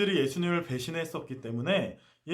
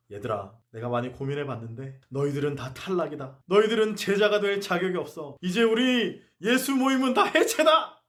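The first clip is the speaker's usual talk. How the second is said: mock declaration; 3 semitones higher, 4 dB louder than usual. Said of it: "이렇게 해체 선언을 하실까".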